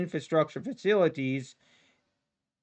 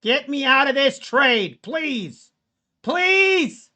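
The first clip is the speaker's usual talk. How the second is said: higher, louder begging; frantic plea to get out; desperate pleading; 7 semitones higher, 5 dB louder, slower than usual. Real, not acted. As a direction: plead with the market. Begging market.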